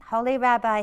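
a mild cry of Holy Rabbi. Acted. Poor man begs the rabbi for help, mild outcry. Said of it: "he cried".

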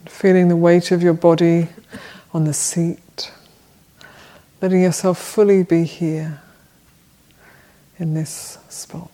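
measured meditation guidance with long pauses; unhurried phrases, each left to settle; guided meditation. Real, not acted. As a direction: guide them gently into body and breath, leaving long silences. Leads a seated meditation.

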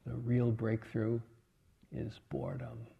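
dropping to a near-whisper on boredom; hushed into the mic. Retold or imitated. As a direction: lean in and let it fall almost silent. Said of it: "he leans into the microphone".

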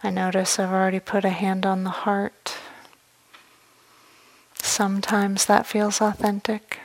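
calm meditation guidance with long, unhurried pauses; measured meditation voice, letting each phrase settle; guided meditation. Real, not acted. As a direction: guide them gently inward, leaving space after each phrase.

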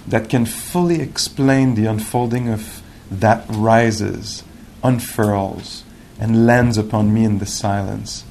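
slow, measured poetry recital; unhurried reading of a contemplative poem. Acted. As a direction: let each phrase soak in, with long pauses. Reads the poem again.

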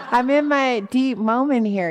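laughing protest. Retold or imitated. Laughing protest at cheering friends.

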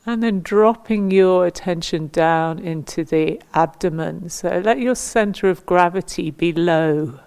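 measured meditation guidance with long pauses between instructions; guided meditation. Acted. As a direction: guide them gently into standing stillness, phrase by phrase. Leads standing body-awareness meditation.

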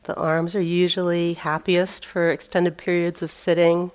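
measured meditation-teacher voice with long pauses; phrase by phrase, leaving space between instructions; guided meditation. Real, not acted. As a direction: guide them into the sitting posture, unhurried. Leads a seated meditation.

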